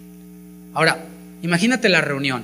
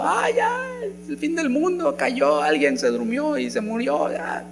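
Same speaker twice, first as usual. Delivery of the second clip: very high hammed-up wail of doom; mock despair; 9 semitones higher, slower than usual. Preacher mocks churchgoers who panic at a fall, high mock wail. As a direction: play the world is ending, overdone. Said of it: "pensar que es el fin del mundo".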